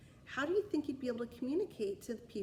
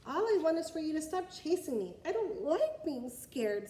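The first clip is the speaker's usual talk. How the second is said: dragon pleading; 6 semitones higher than usual. Acted. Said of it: "said the dragon".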